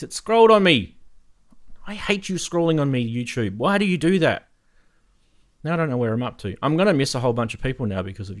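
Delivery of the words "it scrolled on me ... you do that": higher, mock-outraged grumble; exasperated complaint. Real, not acted. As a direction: scold the chat software in exasperation. Grumbling at scrolling chat.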